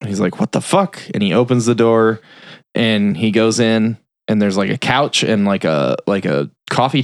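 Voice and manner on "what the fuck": higher, mock-baffled question. Shop owner finds the glass room, mock baffled. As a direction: imitate puzzled surprise. Owner sees something odd.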